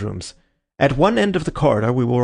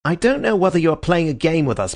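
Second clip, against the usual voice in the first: angry; 6 semitones higher than usual. A narrator's reading. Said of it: "grow red and angry".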